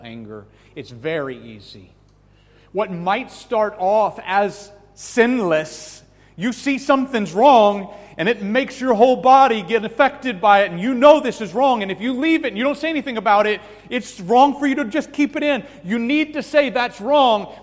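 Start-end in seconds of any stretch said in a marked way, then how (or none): 2.7-16.7 loud, high impassioned preaching that keeps climbing; rising fervent sermon shout; preaching at full force. Acted. 16.7-17.5 loud, high firm protest; loud rebuke. Shown as a demonstration. Preacher voices rebuke.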